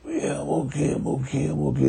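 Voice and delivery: put-on young jazz musician before the gravelly voice. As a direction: imitate a shy kid, light and quiet. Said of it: "before he had the real gravelly voice".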